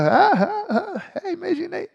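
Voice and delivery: high cries breaking into laughter; cracking up while imitating the kids; laughing yell. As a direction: shout through giggles. Acting the panicked shouting kids.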